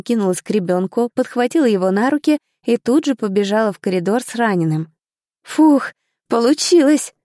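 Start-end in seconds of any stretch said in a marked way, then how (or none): 5.4-7.1 a bright relieved exhale; happy relief after the dash; a touch of smiling relief, louder. A narrator's reading. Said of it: "улыбнулась я".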